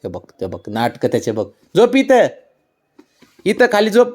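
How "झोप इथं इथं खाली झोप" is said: high, loud singsong coaxing; coaxing pet. Real, not acted. Owner coaxing her dog to lie down, singsong. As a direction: lull the dog down with repeated high coos.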